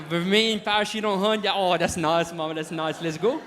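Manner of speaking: hammed-up delight, loud; imitated excited bride. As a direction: play her thrilled, voice up. Princess thrilled by second floor.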